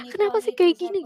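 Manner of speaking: as if wanting to scream but too ashamed; tearful plea. Retold or imitated. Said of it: "pengen teriak tapi malu kan".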